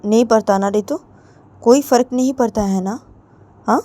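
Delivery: spiteful mother. Retold or imitated. Mother taunting Ritu to suffer, loud mocking scolding. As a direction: sneer it loudly at her daughter. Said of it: "तो तभी रितु की mummy बोलती".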